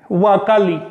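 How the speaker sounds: "huacali" with a clear w onset; model word. Shown as a demonstration. (huacali con w inicial clara)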